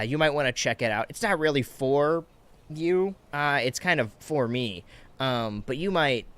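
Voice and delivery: loud, condescending comic-store nerd; lightly hammed-up smug superfan; imitating a gatekeeping nerd. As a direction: talk down to her like the only true fan. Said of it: "and I corner you in the comic store".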